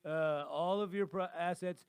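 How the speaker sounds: loud, pushy huckster demand; toupee-wearing salesman. Acted. Co-host as toupee-wearing dealmaker demanding all your assets, pushy salesman. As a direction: press the buyer as if it's all reasonable. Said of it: "put a toupee on my head, and I'll be like".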